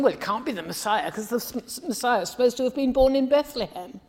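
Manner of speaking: quick, dismissive know-it-all retort; scornful bigwigs. Retold or imitated. Religious leaders scoffing at Jesus, quick and dismissive. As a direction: brush the claim aside, hurrying. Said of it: "the bigwigs were saying".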